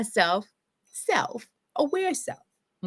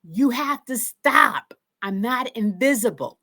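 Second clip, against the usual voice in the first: retold scream; 3 semitones higher, 3 dB louder than usual. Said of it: "So then I then scream".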